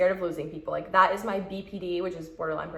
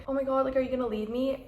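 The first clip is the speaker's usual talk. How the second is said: higher, anxious pleading; mock needy plea; 6 semitones higher, faster than usual. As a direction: act out the clingy question. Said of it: "You don't even have to say".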